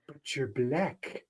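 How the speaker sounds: slow, soft imitated South African accent. Retelling a film's consulate scene, imitated South African accent. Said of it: "In the South African accent".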